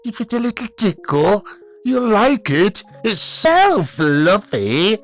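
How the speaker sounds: high loud wheedling; creepy coaxing bully. A narrator's reading. Ian pressuring David to touch his tail, creepy coaxing. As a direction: push him, teasingly.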